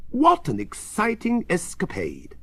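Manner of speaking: high-pitched, thrilled exclamation; exclaiming. A narrator's reading. Elderly professor joining the windy fun, exclaiming. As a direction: exclaim it with excitement. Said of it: "he exclaims".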